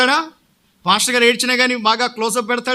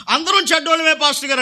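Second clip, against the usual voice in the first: quick, higher mock reply of the whole flock; mimicking congregation; 5 semitones higher, much faster than usual. Pastor mimics the congregation answering him together, quick and higher. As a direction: toss off the easy group answer. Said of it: "అంటారు".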